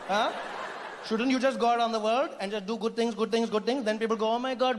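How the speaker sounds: lightly voiced incredulous Indian; Indian character. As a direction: needle them in an Indian accent, drawing out the jibe. Indian answering the British colonizer.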